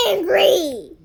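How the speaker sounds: high, loud laughing answer; loud laughing blurt. Real, not acted.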